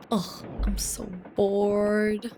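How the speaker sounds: slow, whispered bored sigh. Acted. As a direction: breathe it out, bored. Reading a game line aloud.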